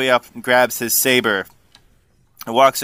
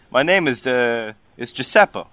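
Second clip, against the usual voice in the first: lightly voiced Jersey Italian; a hint of New Jersey Italian; New Jersey Italian accent. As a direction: introduce him with a Jersey-Italian twang. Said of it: "Italian is gonna sound New Jersey".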